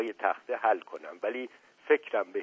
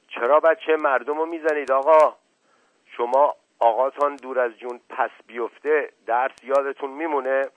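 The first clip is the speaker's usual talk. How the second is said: loud, higher indignant shout at the teacher; shouting in protest; 4 semitones higher, 7 dB louder than usual. A narrator's reading. Mash Qasem yelling at the teacher to stop hitting the boy. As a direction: yell to defend the boy. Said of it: "ناگهان آمد جلو و فریاد زد".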